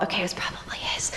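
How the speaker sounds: hushed mock confession; joking whispered aside. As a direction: slip it in under your breath. Joking confidential aside to audience.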